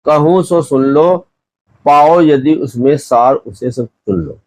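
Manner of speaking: slow, drawn-out poem reading; verse recitation. Acted. Teacher reciting the queen's couplet to students, slow verse recitation. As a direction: recite the couplet unhurriedly, stretching the words.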